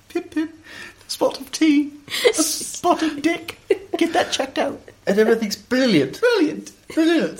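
light mock royal British accent; hammed-up posh British, laughing; Queen impression. Imitating a British podcast host like the Queen. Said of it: "She's like the Queen".

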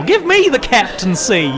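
high, loud Georgian hick voice; fake Georgian accent. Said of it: "the fake Georgian accent".

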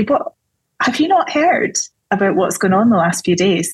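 a touch of incredulity; mock incredulous. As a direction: imitate astonished disciples, pitch jumping on the first word. Disciples' astonished reply, acted.

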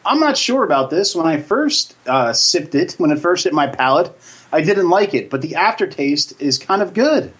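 a light salesy pitch; infomercial voice. Pretend. Reviewing the beer on air, light infomercial pitch. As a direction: sell it like a cheesy TV ad, lightly. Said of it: "Why are you selling a bad infomercial?".

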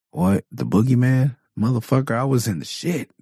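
high scoffing war-vet voice; veteran dad. Retold or imitated. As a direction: play a vet dad brushing off the boogeyman.

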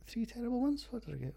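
high questioning doubt on "ones", rising at the end; surprised rereading. Real, not acted. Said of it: "No, that's wrong".

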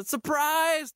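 råb det glad som en kæreste der afslører alt; mock surprise shout. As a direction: let spillet, høj overraskelsesråb. Boyfriend reveals the setup. (kæresten råber til hende, mens han afslører det hele, i glad og let spillet tone)

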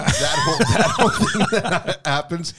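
laughing while talking; high giggle through the words. Real, not acted. Laughing recalling the sob.

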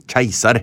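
keiser echoed in Storebø dialect; dialect pronunciation. Shown as a demonstration. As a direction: keiser with the ending opened to -ar. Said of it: "Hvordan sier du på din dialekt?".

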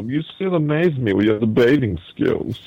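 a hint of a smug villain; movie villain. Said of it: "he sounds kinda like a villain".

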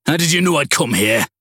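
rattled, barely getting the words out; strained. A narrator's reading. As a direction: squeeze the question out in shock. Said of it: "he managed".

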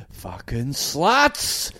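loud, high, slow hammed-up ranting yell; mock yelling crazy man. Crazy man shouting in the street, mock yell. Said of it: "Like this".

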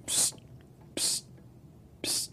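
short unvoiced attention-getting psst; psst noise. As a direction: sneak out little psst sounds. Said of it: "heard a little noise going".

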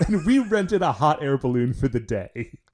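lightly voiced wistful dreamer; a hint of a starry-eyed pitch; dreamy idealist voice. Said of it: "raises his hand and says".

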